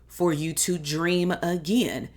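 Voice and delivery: again leaned on, slowed down; slow down and lean hard on again; stress on again. Shown as a demonstration. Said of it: "I emphasize the word again".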